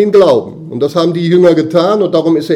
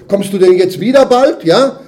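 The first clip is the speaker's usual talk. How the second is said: eager apostles; 4 semitones higher, 5 dB louder than usual. Retold or imitated. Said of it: "Die haben ihn ja noch gefragt".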